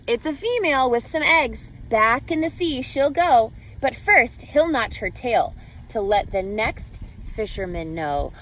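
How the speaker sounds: storybook read-aloud with lively rhythm; reading to children. A narrator's reading. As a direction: read it like a picture book to a class. Reading picture book to class.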